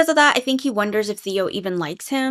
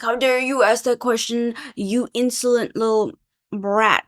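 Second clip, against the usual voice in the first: mock outrage; 3 semitones higher, 3 dB louder than usual. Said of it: "He's like".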